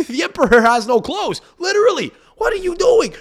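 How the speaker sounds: high, loud disbelief with a laugh; can't believe what they're seeing, laughing; incredulous outburst. Real, not acted. Incredulous rant.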